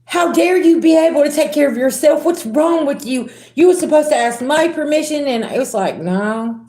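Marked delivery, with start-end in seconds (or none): 0.1-5.3 higher, indignant mock voice; mock outraged controller. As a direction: play the bossy person scandalised you managed alone. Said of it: "and they're like".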